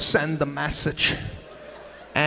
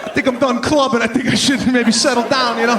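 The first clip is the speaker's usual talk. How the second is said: high, loud, fast hammed-up proposal; mock earnest proposal blurted out loud; blundering proposer; 6 semitones higher, 7 dB louder, faster than usual. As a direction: plead it like a tactless boyfriend. Guy's clumsy proposal speech.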